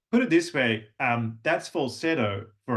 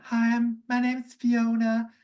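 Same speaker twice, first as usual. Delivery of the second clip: imitating client; 11 semitones higher than usual. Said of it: "she was like".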